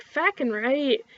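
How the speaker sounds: "Fackin'" with a wide, flattened A, inland Canadian; inland Canadian accent. Shown as a demonstration. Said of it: "with more of the inland typical whatever".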